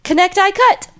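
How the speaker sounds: Connect I Cut, syllable by syllable, high; spelling it out. Shown as a demonstration. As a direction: sound out Connect I Cut in three parts. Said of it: "Which I learned to spell last night".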